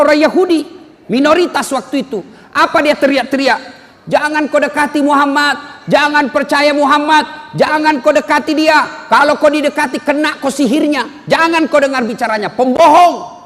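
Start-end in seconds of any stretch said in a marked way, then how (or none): 4.1-13.4 mock yelling. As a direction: call it out to warn the crowd, a touch hammed. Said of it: "Selalu berteriak-teriak". (teriakan pura-pura, suara agak tinggi dan lambat)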